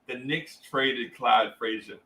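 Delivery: slow, low, heavy delivery; understated retold sorrow; retold grave news. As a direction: break bad news slowly and low. Breaking bad news while crying.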